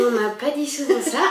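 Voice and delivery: normal talking voice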